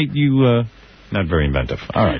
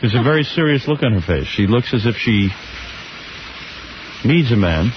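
scene-setting narration. Pretend. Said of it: "I'm gonna put you in the shower".

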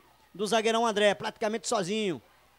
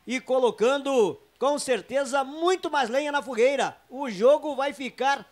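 raised, heated play-by-play; excited commentary; 3 semitones higher, 4 dB louder than usual. Real, not acted. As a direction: keep the energy high over the replay.

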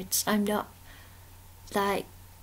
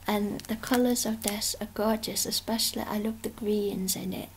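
whisper. Real, not acted. Whispered admiring of artwork.

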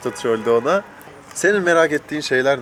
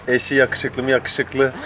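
laughing; much slower than usual. Real, not acted. Slow teasing with laugh.

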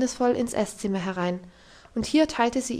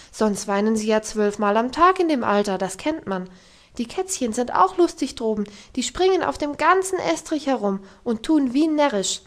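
encouraging; 4 dB louder than usual. Acted. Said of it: "sprach ermutigende Worte zu ihm".

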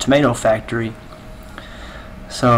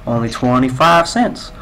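mock cashier pitch. Cashier recites rehearsed line.

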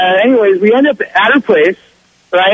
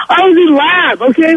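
laughing, pitched higher; 6 semitones higher than usual. Real, not acted. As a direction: crack up as you confess. Laughs at own trick.

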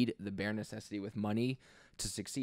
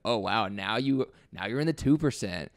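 condescending. Acted. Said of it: "say that in a condescending way".

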